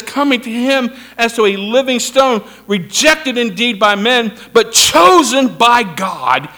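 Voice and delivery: loud, emphatic scripture reading; forceful preaching. Real, not acted. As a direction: proclaim the verse to the congregation. Preacher declaims the verse.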